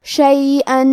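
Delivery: شیئن with the tanween merged into the next نون, nasalised; idgham with ghunna. Shown as a demonstration. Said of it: "تنوین کو نون میں ملا کے غنہ اور تشدید".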